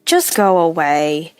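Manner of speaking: a drained, flat-toned husband shooing his sister away slowly; weary dismissal. Acted. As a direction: wave her off without the energy to fight. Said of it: "lost the energy to get angry".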